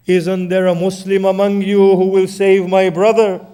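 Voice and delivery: loud, rising lament of a sister; despairing cry. Acted. Zainab crying to the crowd to save her brother, loud despair. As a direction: wail for someone to save him.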